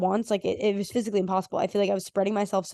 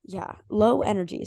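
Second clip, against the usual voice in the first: losing voice. Real, not acted. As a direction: speak with a nearly gone voice. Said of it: "my voice is just kind of gone".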